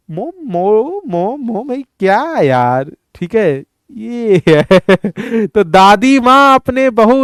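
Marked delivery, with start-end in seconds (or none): 0.1-4.7 soft, whining repeated mom; a lightly voiced sleepy bride; whiny daughter-in-law.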